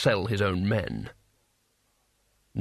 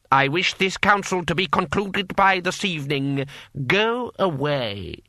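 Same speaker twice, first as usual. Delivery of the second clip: higher, firm dismissal slowing at the end; commanding lord; 6 semitones higher than usual. A narrator's reading. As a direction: dismiss an underling imperiously.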